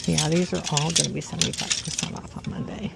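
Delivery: talking while chewing gum. Real, not acted. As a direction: gum in the mouth. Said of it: "I'm sorry about the gum chewing".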